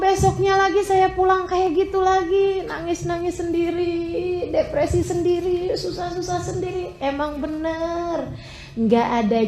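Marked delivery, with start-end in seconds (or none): 0.0-7.0 a touch of crying in the quoted words; half-weeping imitation of despair; tearful retelling. Friend recalling nights of crying alone, tearful. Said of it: "Dia bilang".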